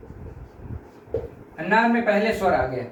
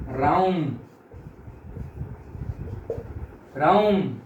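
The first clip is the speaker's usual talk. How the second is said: prolonged call; 4 semitones lower, 4 dB quieter, much slower than usual. Shown as a demonstration. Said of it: "ऐसे बोलते हैं ना".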